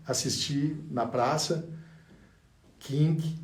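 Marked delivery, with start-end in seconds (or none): none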